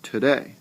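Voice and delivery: Today rising onto day; stress on second syllable. Shown as a demonstration. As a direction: let the voice rise on the day of Today. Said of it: "my voice actually rises".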